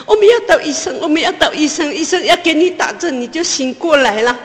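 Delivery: loud, high desperate calling out; panicked high-pitched shouts to a sick child; frantic shouting while running. Retold or imitated. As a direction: yell it out as you run for help. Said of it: "一边跑一边喊".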